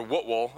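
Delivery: "Whitwell" with a reduced second syllable, like WUT-wul; local pronunciation attempt. Shown as a demonstration. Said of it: "or however you say it down here".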